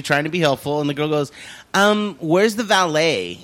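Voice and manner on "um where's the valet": drawn-out entitled "where's the valet"; slow snooty ask. Retold or imitated. Mimicking the rich woman demanding a valet, slow and snooty. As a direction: stretch it out like a spoiled rich girl.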